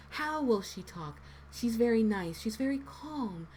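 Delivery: lightly voiced, nice and calm character; a hint of a gentle character's inflection; nice, calm Toriel. Shown as a demonstration. Voice actor showing friends how to build a character's inflection, lightly voiced nice, calm character. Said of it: "start with the inflection".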